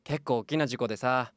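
childlike patient, lightly voiced; a lonely boy asking to chat.

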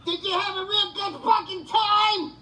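furious sarcastic taunt. Real, not acted. Taunting the callers about their entertainment, furious sarcasm. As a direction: spit the sarcasm at them.

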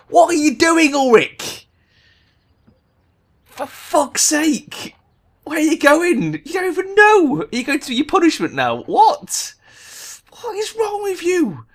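high, loud exasperated screeching at Ulrich; shrieking rage. Real, not acted. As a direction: scream your frustration at the useless player. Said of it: "The rage! Impotent rage!".

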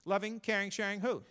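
loving, caring, sharing WHO, teasing; stress on who. Acted. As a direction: hit "who" as a sly question. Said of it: "here's where it gets a little raunchy".

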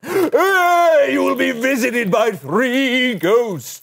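exaggerated cartoon intonation. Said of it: "Why are you talking like that?".

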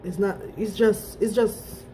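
straw at the lips; speaking while sipping drink; talking between sips. Real, not acted. Seen 3: Cup held up, straw touching her lips through the labelled words.

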